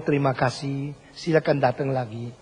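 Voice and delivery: mean every word, gently; sincere thanks. Retold or imitated. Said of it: "kesungguhan itu menjadi tanda keindahan".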